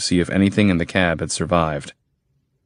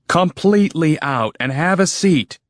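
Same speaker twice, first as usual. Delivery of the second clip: firm command; 10 semitones higher than usual. Acted. Hero's order.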